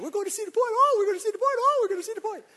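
put-on high, sing-song kid chant; little kid on the way to Cedar Point, excited and high. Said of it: "They get all excited".

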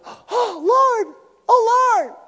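very high, loud, joyful cry; Mary shrieking with joy; Mary's cry. Retold or imitated. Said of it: "And she goes".

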